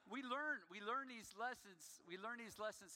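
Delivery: emphatic preaching. Real, not acted. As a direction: preach it with force.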